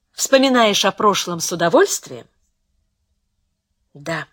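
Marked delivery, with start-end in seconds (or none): 3.9-4.3 softly voiced, low single word; quiet. A narrator's reading. Beatriz quietly answers Pico's question about the past, quiet. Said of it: "тихо сказала Беатрис".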